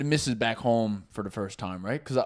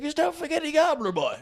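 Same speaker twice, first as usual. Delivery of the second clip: mock boastful drunk; 13 semitones higher, 4 dB quieter, faster than usual. Retold drunk boast at bar.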